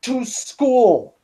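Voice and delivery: slow, disbelieving repeat; incredulous. Real, not acted. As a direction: say it in stunned disbelief.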